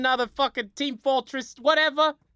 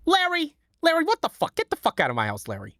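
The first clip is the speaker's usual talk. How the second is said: Susie Greene impression; 5 semitones higher than usual. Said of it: "Susie from Curb".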